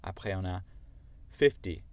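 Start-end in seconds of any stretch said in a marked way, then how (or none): 1.3-1.8 American fifty, louder, relaxed T; American demo of fifty, softened T; American accent. Shown as a demonstration. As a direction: say fifty the American way, fif-dee. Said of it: "avec mon accent américain et après".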